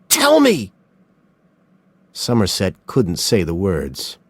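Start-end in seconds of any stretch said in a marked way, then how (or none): 0.1-0.7 high loud cry; frantic order; desperate demand. A narrator's reading. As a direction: demand it in panic. Mills demands box contents.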